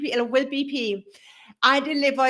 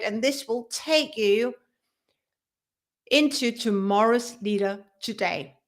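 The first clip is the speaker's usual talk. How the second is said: ordinary talk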